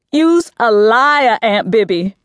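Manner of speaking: moaned. A narrator's reading. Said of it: "I moaned".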